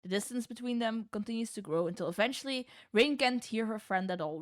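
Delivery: measured storyteller narration; calm scene-setting read; story narration. A narrator's reading. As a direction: set the scene like a game master.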